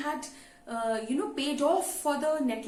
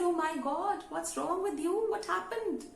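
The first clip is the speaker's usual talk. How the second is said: shocked friend; 5 semitones higher than usual. Retold or imitated. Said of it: "the shock Missus Forrester got".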